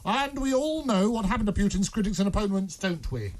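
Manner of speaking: script read in a lightly acted informant voice. Reading his script to a colleague, lightly acted informant voice. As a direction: play the secret informant, barely changed. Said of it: "this is my script".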